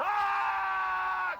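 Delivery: very high, loud, sustained scream; all-out open-throated yell; full scream. Shown as a demonstration. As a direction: scream beyond yourself. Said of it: "scream beyond yourself".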